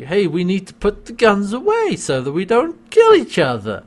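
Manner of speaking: imitating someone calling for calm; mock urgent plea. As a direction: plead loudly, as if retelling a panic. Acts out Crichton's urgent plea.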